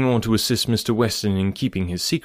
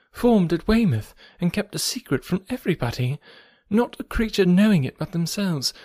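eager; 9 semitones higher than usual. Acted. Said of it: "talking on with eagerness".

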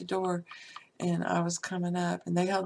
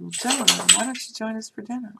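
imitated dad, louder on the address then higher; hearty invitation; 4 semitones higher, 5 dB louder, faster than usual. Dad asking the two gentlemen to join dinner, hearty. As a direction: invite them along heartily, quickening.

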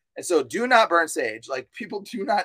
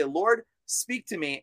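slow, softer humble plea to the Lord; quiet prayer; 5 dB quieter, slower than usual. Shown as a demonstration. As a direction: pray it quietly and slowly. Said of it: "open up your Bible and say".

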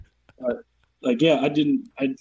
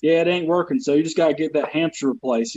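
folksy Southern tech support patter; Southern accent. Acted. IT worker tells a caller about the fault, Southern accent. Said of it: "anything I say in the southern accent".

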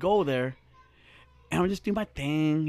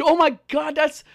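higher-pitched imitation of a thrilled woman; honored, flattered; 8 semitones higher than usual. Imitating Steph told of her picture's fans, honored. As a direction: gush it as she did, flattered. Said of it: "she was so, like, honored".

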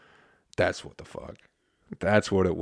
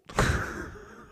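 breathy, voiceless laugh; real wheezy chuckle at your own joke; short laugh with no voice; 3 dB quieter than usual. Real, not acted.

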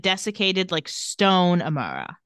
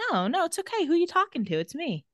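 retold soothing; 8 semitones higher, 3 dB quieter than usual. Silas calming a freaking-out Amara.

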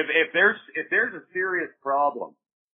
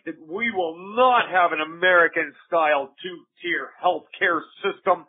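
politician voice; 4 semitones higher than usual. Retold or imitated. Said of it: "that's my politician voice".

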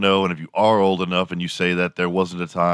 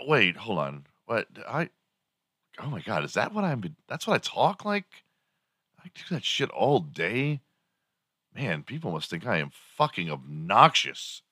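acted hushed disbelief, softer with swooping pitch; mock dawning horror; 2 semitones higher, 6 dB quieter than usual. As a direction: play a mock realisation, pulled back quieter. Acted Valley girl hears herself, appalled.

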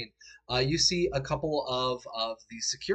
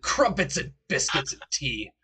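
slow, hammed-up British accent; mock British, drawn out word by word; bad British accent; 3 semitones higher, 4 dB louder than usual. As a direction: put on a badly faked British voice. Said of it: "I can't British".

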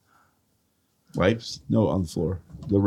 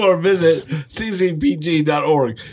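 put-on Southern accent; 6 semitones higher than usual. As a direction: read the fine print in a Southern accent, half-laughing. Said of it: "How'd you turn Southern?".

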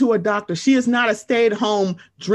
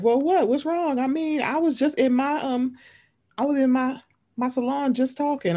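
high, whiny mock-innocent voice; mock innocent excuse; 5 semitones higher than usual. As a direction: imitate her playing dumb, pitched up. Mocking the other woman's excuse.

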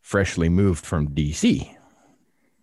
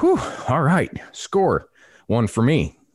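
higher, pleased little cheer; retold celebration; 7 semitones higher, slower than usual. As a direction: replay a hunter's moment of triumph. Celebrating the successful shot.

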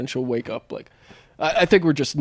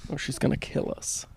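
whispered warning; 5 dB quieter than usual. Retold or imitated. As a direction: hush a sibling so mom won't wake. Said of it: "I was like".

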